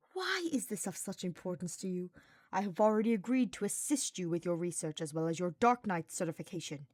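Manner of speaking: a mild, controlled hiss of annoyance. Acted. Hubert hissing at Sylvain in the library, mild hiss. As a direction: keep it tight and annoyed, barely restrained. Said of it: "Hubert hissed".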